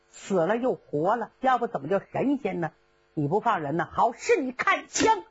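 put-on young Zhao Zilong stern, Shalihan scoffing; heroic young general and foe. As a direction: trade threats before the duel. Characters' battle exchange. (赵子龙与沙里汉阵前对话)

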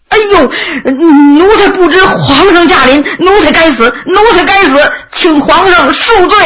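high, fawning servant begging for mercy; panicked pleading. Acted. Clerks begging the emperor to forgive their crime, panicked pleading. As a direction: plead for your life in a high, tearful voice.

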